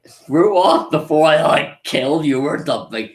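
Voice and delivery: slowed, lightly acted warning; half-hearted threat, punched at the start; mock threat. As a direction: imitate warding off a pest. Retold warning to drunk harasser.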